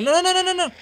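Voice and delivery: high loud panicked cry of no. Real, not acted. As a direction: yelp it in alarm. Losing fight in game.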